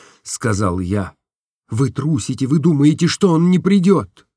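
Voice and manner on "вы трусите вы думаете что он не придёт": put-on higher, lighter girlish voice for Nastenka; Nastenka's voice. A narrator's reading. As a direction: voice the young woman, tender and open. (голос Настеньки, выше и легче)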